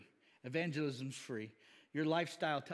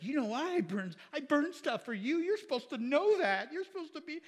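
higher, louder hurt outburst; mock angry rant; 11 semitones higher, 5 dB louder than usual. Frankie griping at Annette on the beach, higher mock anger. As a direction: play the jilted guy griping at her. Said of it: "he got mad 'cause he's like".

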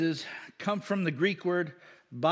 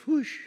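airy whoosh of a passing plane; 9 semitones higher than usual. Shown as a demonstration. Preacher explaining onomatopoeia, imitating a plane's whoosh. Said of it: "A plane goes".

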